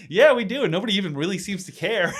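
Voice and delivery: real laughter spilling over the answer; laughing. Real, not acted. Telling a tour guide about New England sharks, laughing. Laughing while retelling the conversation.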